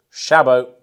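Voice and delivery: Chabot said loud with a grand French lilt; fancy pronunciation. Shown as a demonstration. Presenting the wine to viewers, showy French Chabot. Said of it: "I don't know why I'm saying it like that".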